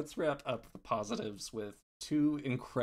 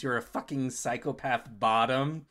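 louder mock accusation, pitch little changed; retold scream; 6 dB louder than usual. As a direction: act out a screamed insult, half-strength. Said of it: "who just screams".

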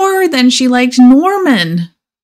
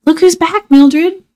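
cheerful reveal; 9 semitones higher than usual. Acted. Norman brings tree back.

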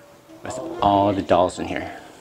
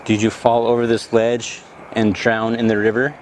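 talking to a ghost. Acted. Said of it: "do an E V P session".

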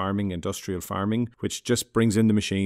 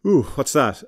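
curious; 5 semitones higher, 6 dB louder than usual. Pretend. Mock question posed to himself.

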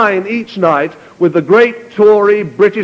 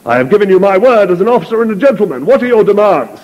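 higher, faster insistence; exasperated general; 4 semitones higher, faster than usual. Acted. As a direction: demand an answer, pressing hard. Wayne presses for demands.

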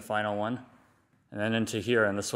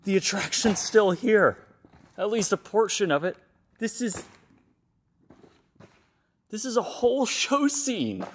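echoey room; 11 semitones higher than usual. Real, not acted. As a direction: voice echoing in a big empty hall. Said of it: "listen to the echo in here".

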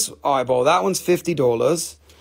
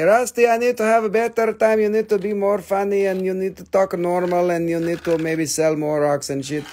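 mock viewer complaint; 4 semitones higher than usual. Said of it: "maybe you can say".

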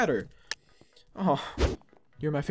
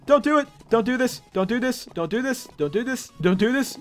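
scared pleading. Real, not acted. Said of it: "I'm, I'm scared".

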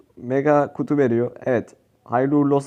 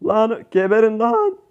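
higher, slow, angry cursing at the enemies; frustrated yell; 6 semitones higher, slower than usual. Real, not acted. Gamer cursing the enemies mid-match: slow angry outburst. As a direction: spit it out at the enemy team.

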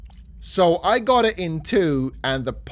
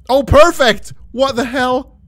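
louder, higher burst of disbelief; surprised shout; 9 semitones higher, 10 dB louder than usual. Real, not acted. Player yells in shock at a near hole-in-one. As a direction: blurt it out, stunned. Shot nearly goes in.

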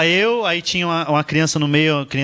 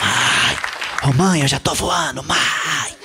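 mock child's singsong; slower than usual. Little girl pestering her mother mid-flight, chanting singsong. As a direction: sing it like a pestering kid. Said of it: "Ela falou".

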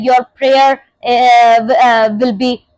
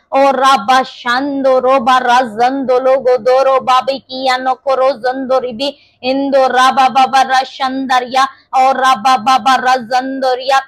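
speaking in tongues. Real, not acted. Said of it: "when you pray in the spirit of tongues".

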